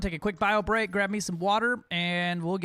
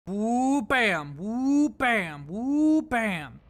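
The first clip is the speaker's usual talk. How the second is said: gun sound effect; 5 dB louder, much slower than usual. Shown as a demonstration. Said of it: "Instead of bang".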